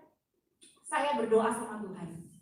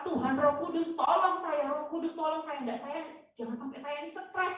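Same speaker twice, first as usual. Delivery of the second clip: higher, urgent appeal to God; pleading prayer, retold; 5 semitones higher than usual. Woman asks the Holy Spirit to spare her stress, pleading. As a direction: beg for help, repeating the plea.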